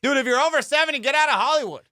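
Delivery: high, loud comic outburst; ranting shout. Real, not acted. Comedian ranting at old people in Hollywood, shouting. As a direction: burst out as if scolding them all.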